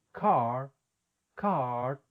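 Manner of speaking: "Car" Boston style, R dropped, long open ah; Boston accent. Shown as a demonstration. Teacher showing how Boston speakers say the word. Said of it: "personas de la ciudad de Boston".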